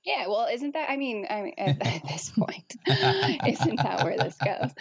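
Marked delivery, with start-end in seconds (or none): 1.6-4.7 laughing. Real, not acted. Laughing at cohost's joke.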